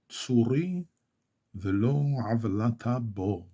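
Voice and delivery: measured Hebrew scripture reading; reading at normal pace. Shown as a demonstration. Teacher reads the psalm through for learners, measured recitation. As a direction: read the verses out phrase by phrase, pausing between. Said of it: "pass through this reading at a normal pace".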